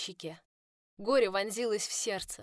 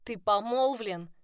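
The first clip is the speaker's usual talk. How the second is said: furious accusation; 3 semitones higher, 7 dB louder, slower than usual. A narrator's reading. She shoves him, furious.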